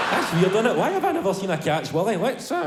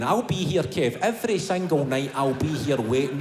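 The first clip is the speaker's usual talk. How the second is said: inner voice; 4 semitones lower than usual. Acted. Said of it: "that wee voice comes in".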